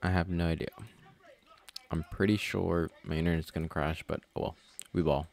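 talking while chewing gum. Real, not acted. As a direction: chew gum as you talk. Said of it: "Sorry if I'm chewing gum".

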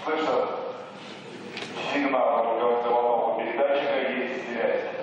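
mission control loudspeaker announcement; steady radio announcer over the loop; astronaut radio. Real, not acted.

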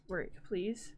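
half-whispered plea to the computer; mumbled second plea; quiet plea. Real, not acted. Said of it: "why doesn't this work".

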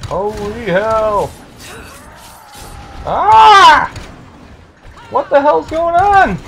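high, loud shock with a scream; startled yelling. Real, not acted. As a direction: yell in alarm, stretching the words. Startled by sudden attack in game.

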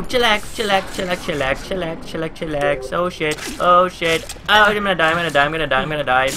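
breathless panicked repeating; real panic. Real, not acted. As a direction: babble in fear. Panicking during attack.

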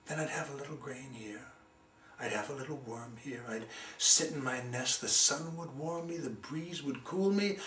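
the sparrow musing peacefully on its easy life; dreamy sparrow. Acted. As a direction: drift off into contentment.

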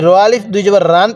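"রান" said with an open "aa"; incorrect reading. Shown as a demonstration. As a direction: show the faulty "raan" at the end, "রান". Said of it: "পড়াটা সহি শুদ্ধ হবে না".

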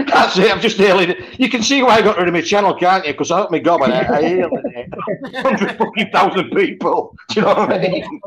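laughing through the words. Real, not acted. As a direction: chuckle while you talk. Laughing at his own rant.

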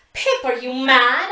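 slow, loud howl after her; desperate howl; howled call. A narrator's reading. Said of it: "I howl after her".

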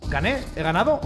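victoria dudosa en tono de pregunta; tanteo incrédulo. Real, not acted. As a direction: pregunta sin alzar la voz, sin creértelo. Descubre incrédulo que ha ganado. (incrédulo, casi preguntando)

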